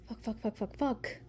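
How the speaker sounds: frantic whispered swearing; rapid whispered panic; whispered curses. Real, not acted. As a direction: hiss it under your breath. Panicked under-breath cursing.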